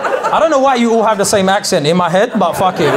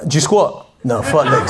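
gym guy; 5 semitones lower than usual. Retold or imitated. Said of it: "that's how gym guys speak".

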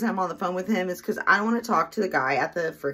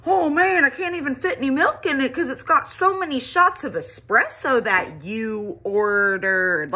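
mock barista; 6 semitones higher than usual. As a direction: imitate the overly friendly barista. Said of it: "He tells me".

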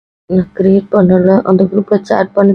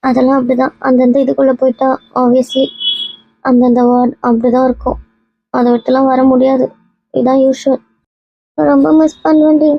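higher, sorrowful resignation; tearful; 4 semitones higher than usual. Acted. Friend parting from college friends, tearful. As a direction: explain it while close to tears. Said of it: "ஏன், ஏன் இப்படி அழுவுறீங்க".

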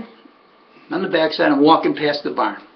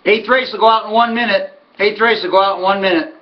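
lightly voiced track call, raised in pitch; paddock announcer; 5 semitones higher than usual. Horseman mimics the call before the eighth race, announcer voice.

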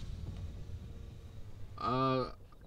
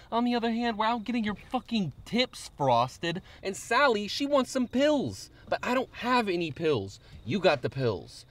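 put-on higher-pitched griping in Long Island accent; 4 semitones higher than usual. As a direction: do a put-on Long Island accent, meant as Brooklyn-ish tough. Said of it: "it's not a Brooklyn accent".

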